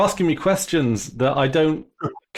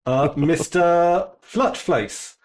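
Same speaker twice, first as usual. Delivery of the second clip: substitute teacher voice; 3 semitones higher, slower than usual. Acted. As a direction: greet the class like a stiff substitute teacher. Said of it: "I'm your substitute teacher".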